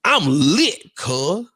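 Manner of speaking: lightly voiced tipsy friend; a hint of party swagger; teasing a buddy, mock tipsy boast; imitating Trevor lit. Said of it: "then you be like this".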